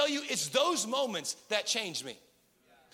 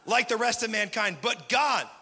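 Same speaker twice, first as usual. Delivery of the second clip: louder, building to but God; proclaimed scripture; 6 dB louder than usual. Acted. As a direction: proclaim it to the church. Loud scripture reading.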